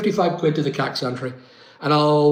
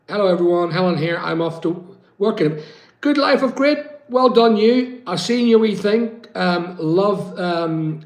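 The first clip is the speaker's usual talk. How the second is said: reading message aloud; 2 semitones higher than usual. Retold or imitated.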